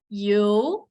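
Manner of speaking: "you" slow and rising. Shown as a demonstration. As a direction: draw "you" slowly upward. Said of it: "Say, for example".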